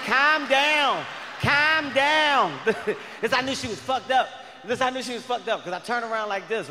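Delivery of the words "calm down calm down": panicked calm down. Retold or imitated. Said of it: "She was like".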